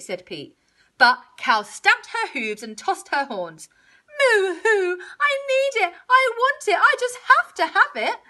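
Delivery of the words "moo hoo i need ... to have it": high, loud tantrum; crying demand, high and insistent; yelling cow. A narrator's reading. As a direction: wail it as a desperate cow. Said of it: "she yelled".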